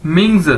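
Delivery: "मिंग्स" joined as ming-z, buzzed ending; model pronunciation. Shown as a demonstration. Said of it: "ये क्या बन जाएगा".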